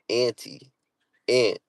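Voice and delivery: "auntie, aunt" with the flat A of ant; "aunt" rhyming with pant; short-A pronunciation. Retold or imitated. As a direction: say "aunt" just like the insect. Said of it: "like a bug".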